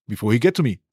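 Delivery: lightly voiced player giving the answer. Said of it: "Keres giving the directions now".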